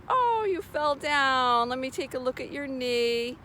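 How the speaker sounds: soothing, unbothered comfort for a scraped knee; calm reassuring mom. Pretend. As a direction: gently shrug it off for the child. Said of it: "I'm like".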